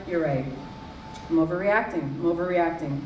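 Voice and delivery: falsely placated, settling low; feigned calm. Acted. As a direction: pretend to calm down and concede. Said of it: "Calm down about the whole thing".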